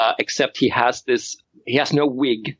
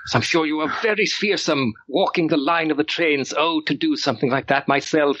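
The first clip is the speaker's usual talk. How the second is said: histrionic; 4 semitones higher than usual. Acted. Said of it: "doing an almost, like, histrionic, theatrical".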